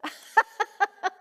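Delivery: quick high chuckle; amused laugh. Real, not acted. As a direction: laugh at the nurse's reply. Nurse has no answer.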